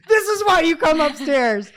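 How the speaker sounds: high, slow, loud parental holler; retold exasperated yell. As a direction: holler the lesson upstairs, hammed-up for the story. Retold yell at daughter during fire.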